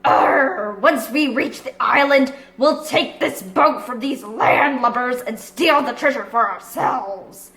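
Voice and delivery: lightly gruff pirate growl; a pirate plotting, slowing at the end; pirate cry. Acted. Long John Silver plotting with his crew, mild pirate voice. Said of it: "cried a familiar voice".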